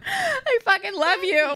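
high, drawn-out acted declaration; gushing affection. Voicing friend's loving reply.

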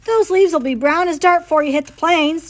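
lightly voiced old-timer calling out a doubt; old man on the riverbank mocking the fruit wagon; old geezer declaring. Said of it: "declared one old geezer".

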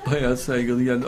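laugh, then keep talking through it; amused laughter. Real, not acted. Laughs at the polite attacker.

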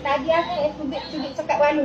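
gentle tone demo. Shown as a demonstration. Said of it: "Nada gini".

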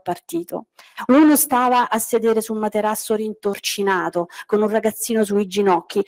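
measured literary reading aloud; story narration. Acted. Teacher reading Pasolini's flood scene to the class, narrating. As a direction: tell the flood scene steadily.

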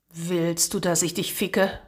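hard voice. Acted. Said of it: "harten Klang von Martins Stimme".

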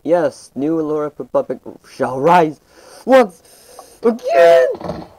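rousing battle cry that soars into a long, high, drawn-out shout; grand proclamation. Acted. Proclaiming his server's rise.

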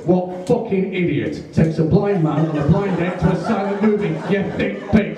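high-pitched indignant tirade; acted outburst, building to the final insult; outraged rant. Blind man rants at his date in cinema, outraged.

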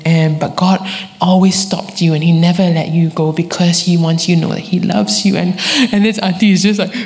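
usual speaking voice

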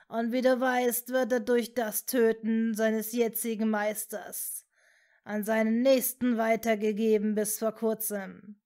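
lightly voiced menacing villain, cold and smug; a hint of a cruel sorcerer; sinister dark lord. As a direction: hold a cold, lordly menace. Narrator voices Voldemort monologue.

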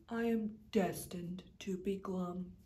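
whispered, resigned; a hopeless whispered sigh; glum whisper. Acted. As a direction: breathe it out in defeat. Fish whispers his fate.

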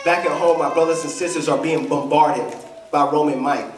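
very low, subdued voice of John; understated grief, sunk deep in pitch; weeping John's answer. Acted. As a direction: answer low and heavy, without sobbing. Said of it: "he's sobbing uncontrollably".

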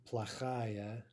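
"плохая" stressed on -ая; stress on the ending. Shown as a demonstration. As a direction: give the -ая of "плохая" its full vowel. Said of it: "note the stress on that ending".

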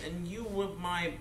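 a tearful laugh as memory returns; half laugh, half cry, moved; laughing through tears. Acted. Tootles recalls Neverland, moved.

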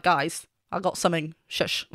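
soft, hushed secretive aside; hushed imitation. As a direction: hush the crowd with a secret. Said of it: "She was just like".

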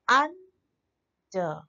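"under" split into two separate short syllables; unstressed syllables shown. Shown as a demonstration. Teacher showing the unstressed syllables, "under" broken in two. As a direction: say "under" as un, pause, der. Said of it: "ये दोनों unstressed हुए क्योंकि short sound".

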